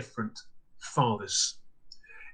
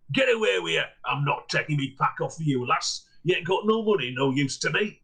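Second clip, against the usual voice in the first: gruff peddler voice; 2 semitones higher than usual. Acted. Peddler shooing off a begging girl, gruff. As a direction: brush her off like a grumpy trader.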